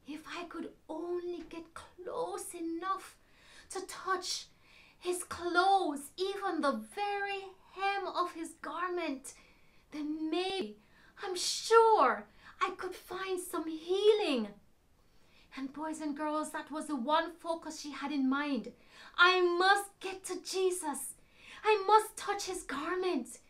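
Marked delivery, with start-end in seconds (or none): 0.1-14.5 hopeful woman. Acted. Sick woman voiced in story. 19.2-23.4 determined woman. Acted. Woman's determined inner resolve.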